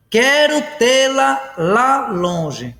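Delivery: very slow, each word drawn out; slow example reading. Shown as a demonstration. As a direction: read it out slowly for the class. Teacher reads out example sentence. (leitura bem pausada do exemplo)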